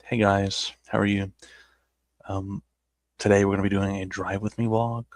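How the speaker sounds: putting on a neutral American accent, measured and even; faked non-Southern accent. Shown as a demonstration. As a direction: hide the Southern accent behind careful vlogger speech. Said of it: "I used to talk like this".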